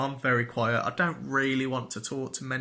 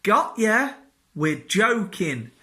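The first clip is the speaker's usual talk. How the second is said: mock boss joke; 7 semitones higher, 7 dB louder, slower than usual. Boss pretending it's a joke.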